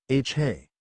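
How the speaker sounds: awkward, stuttered hey; uncomfortable. A narrator's reading. Nephew tries the greeting on his friend, with mild discomfort. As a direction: stumble slightly on the greeting. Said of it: "a similar state of discomfort".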